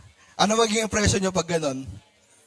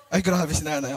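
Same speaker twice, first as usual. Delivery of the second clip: a lightly voiced camp quip, a touch softer; campy gay voice; 4 semitones lower, 3 dB quieter than usual. Teacher imitates a camp speaker reacting, soft and sassy.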